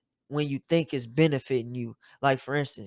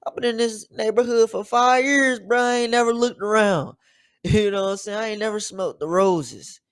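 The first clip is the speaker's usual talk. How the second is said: high, loud disbelief at himself; amazed realisation; 7 semitones higher, 6 dB louder than usual. Retold or imitated. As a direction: exclaim it like a sudden revelation. Acts out his own sudden realisation.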